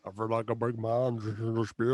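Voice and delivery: mock French big-man voice; French-accented giant. Giant drinking a tiny beer, hammed-up French accent. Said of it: "best French accent I've ever heard you do".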